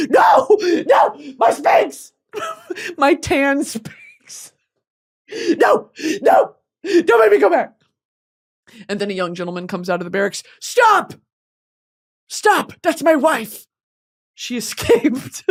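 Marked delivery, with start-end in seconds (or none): 0.1-7.7 high, loud, hammed-up wailing protest; mock panicked plea. Tackled by guards and begging, mock panicked high plea. 10.6-15.4 mock heroic stop. Young soldier rescuing her.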